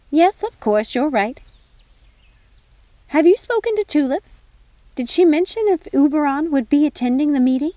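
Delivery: a busy fairy godmother fussing over tea; fussy fairy godmother. Acted.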